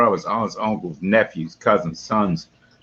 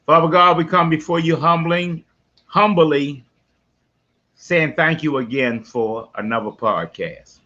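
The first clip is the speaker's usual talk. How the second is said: light prayer. Acted. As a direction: pray over the show. Leads the show prayer.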